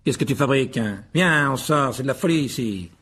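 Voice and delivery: calling out. A narrator's reading. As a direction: hurry your son along over the din. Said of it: "s'écria monsieur Weasley".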